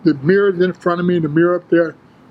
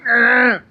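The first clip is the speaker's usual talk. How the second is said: higher, acted exertion grunt; lifting grunt; 5 semitones higher than usual. Lifter picking up the heavy bar, imitated grunt. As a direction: imitate the strain of pushing the bar up. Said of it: "Getting myself all fired up".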